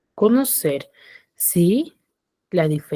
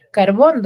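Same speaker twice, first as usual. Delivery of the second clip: Carbón with a louder final bón; stress on BÓN; 6 dB louder than usual. Shown as a demonstration. Teacher asking where the force falls, stressed BÓN in Carbón. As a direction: lean on the last syllable of Carbón. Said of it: "dónde tiene la mayor fuerza de voz".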